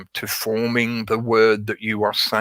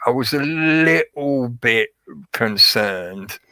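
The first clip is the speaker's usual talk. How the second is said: hedging; slower than usual. Shown as a demonstration. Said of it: "that dilutes what you're trying to say".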